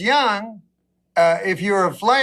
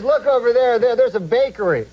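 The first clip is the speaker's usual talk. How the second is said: put-on quoting old friend; 4 semitones higher than usual. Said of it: "He says".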